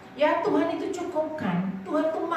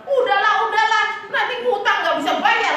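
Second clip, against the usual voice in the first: imitating the seller; 8 semitones higher, 3 dB louder than usual. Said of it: "Dia bilang".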